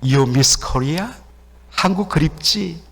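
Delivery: mildly tender, drawn-out question; gentle consoling. Retold or imitated. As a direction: imitate a kindly mother soothing someone. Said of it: "점잖은 미국 엄마가 다가와서 다독여줍니다".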